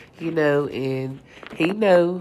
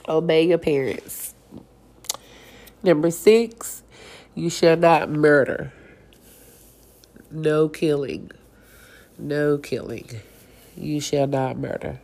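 blocked nose, talking through congestion; stuffed-up nasal voice from a cold; stuffy nose. Real, not acted. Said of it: "I sound so stuffy".

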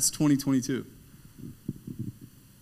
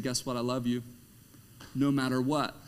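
gentle reassurance. Acted. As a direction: say it kindly to the enemy. Gentle quote after shouting.

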